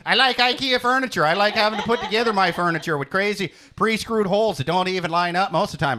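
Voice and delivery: put-on Norwegian accent. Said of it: "my Norwegian sounds like a cartoon Canadian".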